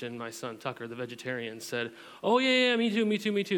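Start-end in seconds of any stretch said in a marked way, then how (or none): 2.2-3.6 put-on high, loud, eager little boy; a kid shouting me too for taquitos. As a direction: jump in like an excited kid. Son eagerly joining in story.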